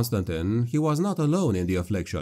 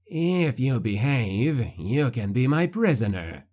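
slow, sneering villain voice; a hint of a gloating sorcerer; sneering necromancer; slower than usual. A narrator's reading.

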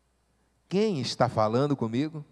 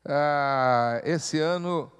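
normal talking voice

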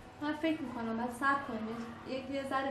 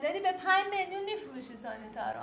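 raised, insistent challenge; confronting; 3 semitones higher, 4 dB louder than usual. Real, not acted. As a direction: confront her with pointed disbelief, pitch lifted. Confronts mother over selling her daughter. (با لحن معترض و پافشارانه)

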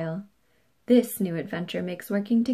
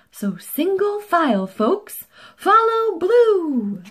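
lightly pompous speech voice, slowing to a grand "follow Blue"; mayor's speech; 2 semitones higher, 3 dB louder than usual. Acted. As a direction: orate like a proud small-town mayor. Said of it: "gave a speech the way mayors do".

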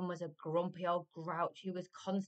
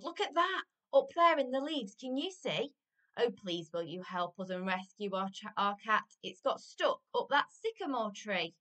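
put-on high, loud children calling out; excited yelling children; 5 semitones higher, 7 dB louder than usual. A narrator's reading. Children begging the giant to rescue their cat, high excited yelling. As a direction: yell it up, urgent and pleading. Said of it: "they yelled".

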